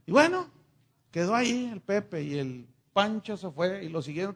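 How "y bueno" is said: ordinary delivery, nothing marked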